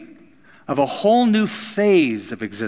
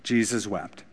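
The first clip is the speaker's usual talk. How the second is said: soft and hushed; 5 semitones lower, 7 dB quieter than usual. Shown as a demonstration. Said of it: "it says in there".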